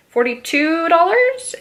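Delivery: stunned, whispered question; breathless disbelief at price; shocked whisper. Real, not acted.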